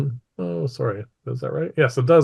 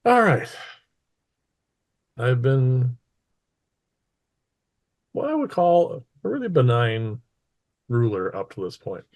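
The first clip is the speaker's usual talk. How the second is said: lightly voiced ruler opening a speech; imperious mistress. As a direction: address the crowd with long, deliberate pauses. Game master voices the mistress's speech.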